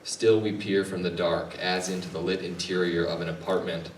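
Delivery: measured poem reading, paused between phrases; poetry reading. Acted. Poet reads own work to an audience, measured recital.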